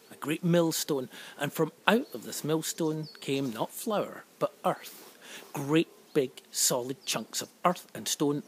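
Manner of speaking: put-on storyteller voice reading to children; story narration. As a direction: tell it like a fireside tale.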